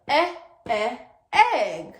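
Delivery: "Eh, eh" clipped then a punched "egg"; sounding out eh. Shown as a demonstration. Teacher sounding out egg for young students. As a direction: isolate the first sound of egg. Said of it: "What about egg?".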